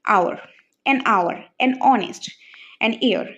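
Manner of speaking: very slow, each article and word drawn out; slow careful examples. Shown as a demonstration. Teacher modelling examples slowly to the class. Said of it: "For example".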